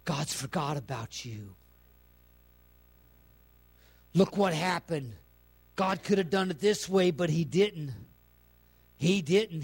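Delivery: hint of a sly tempter; whispering devil. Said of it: "the devil will keep whispering in your ear".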